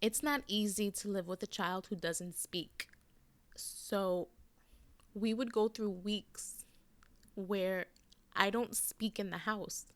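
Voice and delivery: choked up, quiet and halting; holding back tears, words barely voiced in places; getting emotional. Real, not acted. Confiding to listeners about a silent home, quietly tearful. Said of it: "oh my God, I'm getting emotional".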